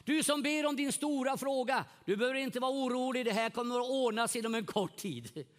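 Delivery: high, loud, rising prophetic reassurance. Retold or imitated. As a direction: announce the answer boldly to the praying pastor. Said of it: "säger en längst bak i lokalen".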